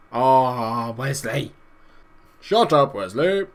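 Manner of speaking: loud frustrated yell at player; exasperated shout. Real, not acted. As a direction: snap at him, fed up. Shouting at own player on screen.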